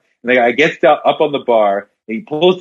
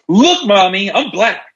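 put-on child voice; 8 semitones higher than usual.

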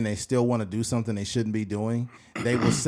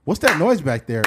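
suspicious demand; 3 semitones higher, 6 dB louder than usual. Acted. Boyfriend demanding on phone.

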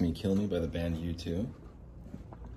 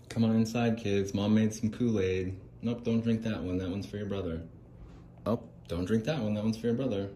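a sweet-sounding mom offering Kool-Aid; 3 semitones higher than usual. Acted. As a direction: lure the kids in like a sugary mom.

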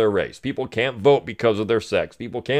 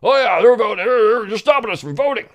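mock idiots; 8 semitones higher than usual. Host mocks readers who believe the letter, put-on dimwit voice. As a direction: play the gullible reader. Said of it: "read this and say".

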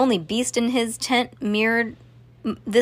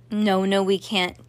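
ordinary delivery, nothing marked

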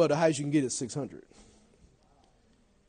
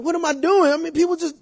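anxious self-doubt; 13 semitones higher, 8 dB louder than usual. Retold or imitated. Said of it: "you start thinking like that".

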